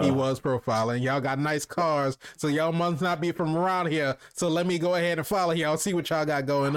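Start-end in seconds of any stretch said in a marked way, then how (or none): 1.0-6.8 Southern drawl. Retold or imitated. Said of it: "What accent is this?".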